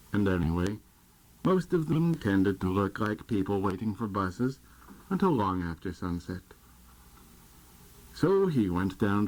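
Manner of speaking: measured live poem recital, phrases starting strong then falling; poetry reading. Acted. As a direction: read it like a poet at an open reading. Guest poet reads own poem aloud.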